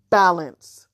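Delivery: gloating. Acted. Jumbi laughs, gloats.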